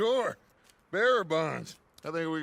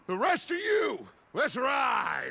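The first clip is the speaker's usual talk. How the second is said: calling out; 5 semitones higher, slower than usual. Acted. Calling the gang to ride.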